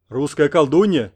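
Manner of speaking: slow, loud proclamation; proclaiming. A narrator's reading. Fat shadow proclaiming to Oksana mid-meal, loud and slow. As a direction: declaim it grandly. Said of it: "вещала тень".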